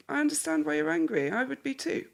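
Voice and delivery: soft, steady acknowledgement; calm validating. Shown as a demonstration. Wife calmly validating her angry husband, soft and steady. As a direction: take the heat out gently. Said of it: "You go".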